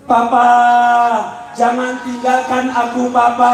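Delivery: mock tearful pleading; child crying for papa. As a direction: imitate a child's plaintive lament. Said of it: "anaknya nangis".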